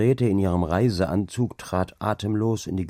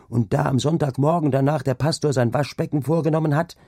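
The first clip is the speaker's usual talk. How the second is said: high, louder, wide-eyed telling of omens; excited gossiping maid; 7 semitones higher, 3 dB louder than usual. Acted. Maid Angrete telling the other maids of omens, high and excited. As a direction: relish each grisly omen.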